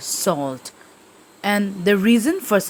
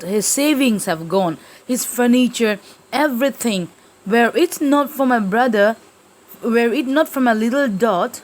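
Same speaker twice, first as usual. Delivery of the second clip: distraught lament; 2 semitones higher than usual. Acted. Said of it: "Now she breaks down crying".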